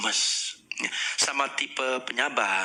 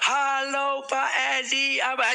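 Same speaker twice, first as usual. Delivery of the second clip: short greeting to a busy boss; clipped greeting; 12 semitones higher, slower than usual. Shown as a demonstration. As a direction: keep it brief. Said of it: "sama tipe pemimpin nggak boleh".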